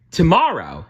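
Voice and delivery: announcing mouse Gus. A narrator's reading. Gus the mouse announcing the wedding date, loud squeak. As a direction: blurt it out like a tiny mouse. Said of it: "he announced".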